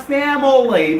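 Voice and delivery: "family" with an extra middle syllable, fam-uh-lee; mispronounced family. Shown as a demonstration. Teacher warning listeners, "family" wrongly in three syllables. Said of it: "because it does not have three syllables".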